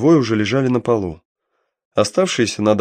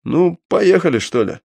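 hoarse, menacing rasp, raised; 7 semitones higher than usual. Acted. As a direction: rasp the threat with a knife out. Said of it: "прохрипел".

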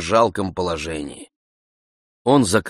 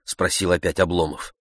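plain reading voice

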